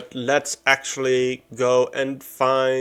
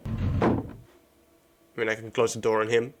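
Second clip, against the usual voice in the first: nervous whisper; 3 semitones lower, 6 dB quieter than usual. Real, not acted. Nervous aside near creepy NPC.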